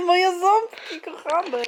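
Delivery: high, slow cooing. Real, not acted. Mother coos over her baby's little teeth, high and slow.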